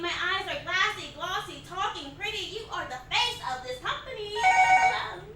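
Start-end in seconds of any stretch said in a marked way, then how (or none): 4.3-5.2 squeaky, much higher hello, strained; cracking customer service voice; forced cheerful greeting. Acted. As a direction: answer the phone with brittle, forced brightness.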